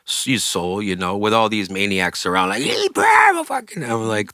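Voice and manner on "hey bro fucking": high mock dude voice. Retold stoner greeting, high.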